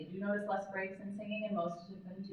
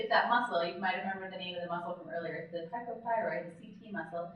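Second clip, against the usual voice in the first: ordinary talk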